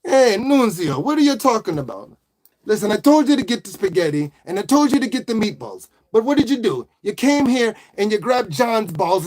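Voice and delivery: hammed-up Italian-American mobster; Italian accent. Mob boss scolding Nunzio and planning to take over town, Italian-American accent. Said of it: "Do an Italian accent".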